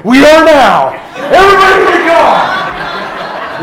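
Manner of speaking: high, loud, drawn-out call to the car; retold shout. Dad shouting the family into the car, loud and high. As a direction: announce it like a triumphant dad.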